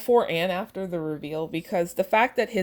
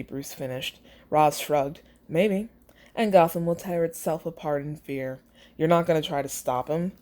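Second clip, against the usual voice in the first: lightly voiced story narration, steady; story reading. Reading her fic passage aloud to viewers, steady narration. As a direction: read the passage out to listeners.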